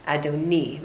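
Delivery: Adoni ending on an E, ah-doh-NEE; pronounced Adoni. Shown as a demonstration. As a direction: mark the final E of Adoni. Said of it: "you pronounce it E".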